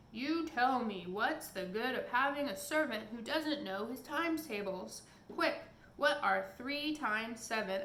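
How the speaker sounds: loud bad-tempered giant; angry giant. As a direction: snap the demand out.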